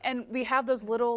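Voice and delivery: ordinary delivery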